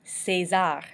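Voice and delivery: César as say-ZAR, the é like AY; French pronunciation. Shown as a demonstration. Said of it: "making the A sound".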